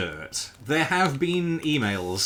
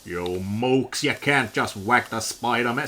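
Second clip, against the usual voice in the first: comic-book boss; 2 semitones lower than usual. Pretend. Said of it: "ad-libbing a fucking Marvel comic dialogue".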